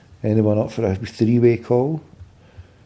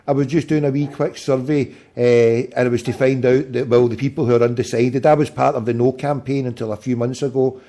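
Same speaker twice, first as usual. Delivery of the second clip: talking without dentures; gummy speech, teeth out; 3 semitones higher than usual. Real, not acted. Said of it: "I'll go and put my teeth in".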